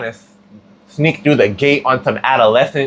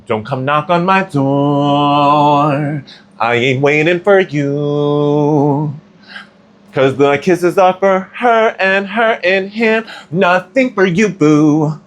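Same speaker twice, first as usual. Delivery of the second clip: sassy brush-off; 3 semitones higher, much slower than usual. Pretend.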